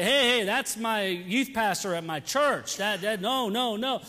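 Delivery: a hint of a hurried correction; mild embarrassed no-no-no; quick denial. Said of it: "quick right away to say".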